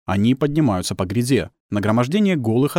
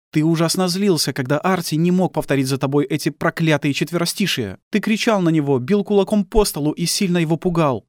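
high-pitched, bitter woman's voice; accusing wife; 8 semitones higher than usual. Acted. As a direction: accuse your husband in a raised, high voice.

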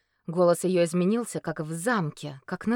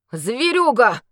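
shocked, louder gasped word; breathed in shock; 6 semitones higher, 10 dB louder, slower than usual. Acted. Shaken knight recognizing the beast. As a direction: exhale it in horror. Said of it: "выдохнул потрясённый Андрей".

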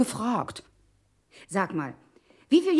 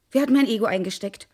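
ironic. Acted. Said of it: "Auf einmal so ironisch".

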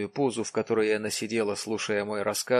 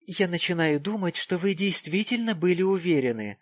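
meaningful pathos; 7 semitones higher than usual. A narrator's reading. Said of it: "с многозначительным пафосом".

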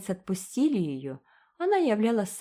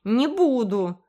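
higher, louder, slow furious yell; furious shout; 6 semitones higher, 6 dB louder, slower than usual. A narrator's reading. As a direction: yell it in a rage. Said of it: "в ярости закричал". (в ярости кричит)

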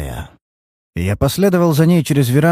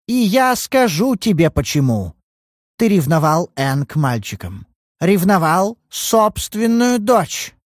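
higher accusing voice, slow on the last words; accusing daughter; 8 semitones higher, slower than usual. Acted. Daughter accusing her father in front of the detective. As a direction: drive the accusation home.

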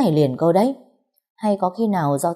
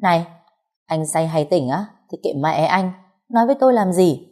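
sassy retort. Acted. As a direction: toss it back at him with scorn. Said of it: "cong cớn nói với hắn".

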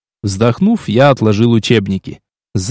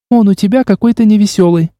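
higher, mock-whiny complaint; complaining; 7 semitones higher than usual. A narrator's reading. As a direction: pout about him playfully. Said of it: "пожаловалась Вейл". (капризно жалуясь)

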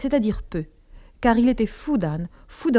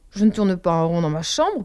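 a hint of a defensive protest; 2 semitones lower than usual. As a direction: push back, mildly offended. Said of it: "protestai-je".

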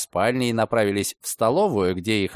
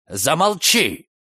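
urgent, slow, raised command; hushed shout; 5 semitones higher, slower than usual. A narrator's reading. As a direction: cut him off sharply. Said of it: "вскричал Карлос". (резкий окрик, чуть громче)

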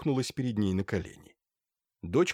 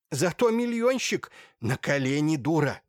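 scolding; 4 semitones higher, 3 dB louder than usual. A narrator's reading. Mother scolds daughter.

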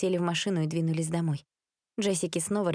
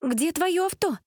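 angry outburst; 10 semitones higher than usual. Acted. A frightened girl yelling at the boy who scared her. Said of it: "психанула Джессика".

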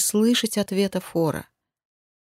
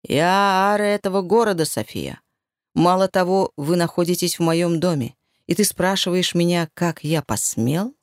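ominous ruler voice; lordly, cold and threatening; dark lord. Acted. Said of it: "зловещим голосом переспросил Дрейк". (властный зловещий голос)

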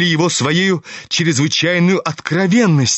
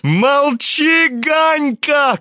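much higher, urgent outcry; high-pitched shouting; 9 semitones higher, much slower than usual. A narrator's reading. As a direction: cry out to shut him up. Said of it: "кричал Коля".

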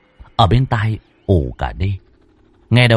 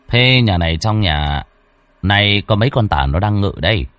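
low, brisk, placating; lightly voiced medium calming the spirit; calm master's voice; 3 semitones lower than usual. Master calms the angry spirit, low and brisk.

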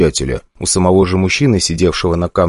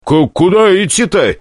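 puzzled; 12 semitones higher, 3 dB louder than usual. A narrator's reading. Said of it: "недоумевал я".

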